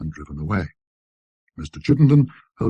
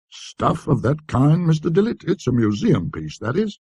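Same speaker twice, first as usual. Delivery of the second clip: higher, slow and wheedling shopkeeper; a lightly voiced sly antique dealer; Chittenden the dealer; 8 semitones higher, 3 dB louder than usual. A narrator's reading. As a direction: draw it out like a coaxing dealer. Chittenden voiced in read story.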